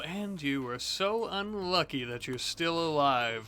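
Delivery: slow gloating villain taunt; menacing captor. Acted. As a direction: savour every cruel word. Taunting captured traitor in roleplay.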